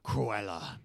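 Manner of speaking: lightly voiced suspense host's introduction; Alfred Hitchcock. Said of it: "I'm Alfred Hitchcock".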